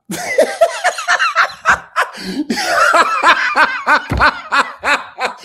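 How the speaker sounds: long high peals of laughter; laughing. Real, not acted. Host after singing his own farewell, laughing hard and high. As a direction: crack up loudly in a high pitch.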